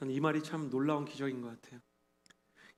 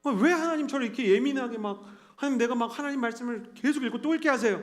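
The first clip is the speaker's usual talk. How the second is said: higher-pitched, fretful protest; exasperated acted prayer; retold complaint to God; 6 semitones higher than usual. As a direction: protest upward to God in mock grievance. Complains to God about being edgy.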